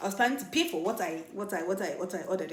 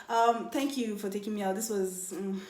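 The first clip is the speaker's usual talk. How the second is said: passive aggressive. Retold or imitated. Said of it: "I can give passive aggression sometimes".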